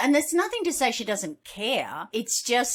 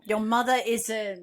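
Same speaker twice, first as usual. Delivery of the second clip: Monty Python style French taunt; mock French accent. Co-host quoting Holy Grail, mock French accent. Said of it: "My French accent comes from Monty Python Holy Grail".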